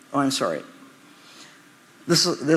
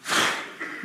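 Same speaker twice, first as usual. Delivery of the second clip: weary sigh; 6 dB quieter than usual. Retold or imitated. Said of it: "I would imagine Jesus going".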